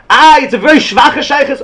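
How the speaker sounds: teacher exclaiming to the students with a laugh; excited exclaim. Real, not acted. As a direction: throw it out with glee. Exclaiming in the lesson.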